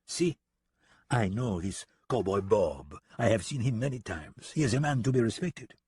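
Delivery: put-on measured French-accented warning; a hint of respect in a French accent; lightly voiced French gunman. French gunman describes the cowboy to deputy, lightly serious French accent.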